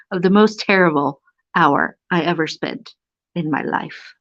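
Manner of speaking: put-on lively read-aloud of an old humorous essay. Reading a funny old book to viewers, lively.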